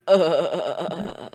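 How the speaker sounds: extreme creaky groan; vocal fry. Acted. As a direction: drag it out in heavy fry. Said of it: "extreme vocal fry".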